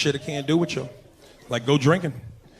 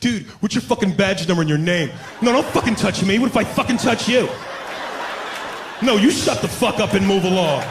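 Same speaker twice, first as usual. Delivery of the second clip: put-on brave drunk white guy; 4 semitones higher than usual. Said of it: "y'all get braver".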